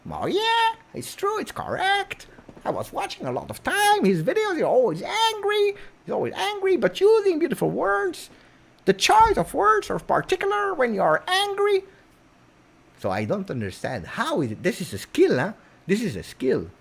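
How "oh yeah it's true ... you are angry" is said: very high-pitched mock English accent; put-on English accent. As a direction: squeak it in an exaggerated English accent. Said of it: "that's the accent of there".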